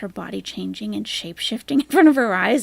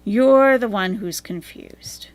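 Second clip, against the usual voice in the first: louder, slower, each word landed; emphatic slow retort; 6 dB louder, slower than usual. Acted. Streamer repeating his jab at Chantal, slower and louder. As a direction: drive it home slowly.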